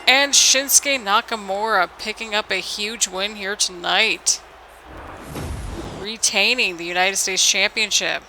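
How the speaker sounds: measured wrestling announcer call; match-winning call. Pretend. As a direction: announce the champion's win. Calls the match result.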